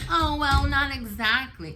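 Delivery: imitating the friend's coy backpedal; mock evasive friend. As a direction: play her squirming excuse. Mocking friend's dodge.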